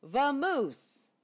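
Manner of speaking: loud, high shout; shooing bear. Acted. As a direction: chase him off loudly. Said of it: "rumbled Bear".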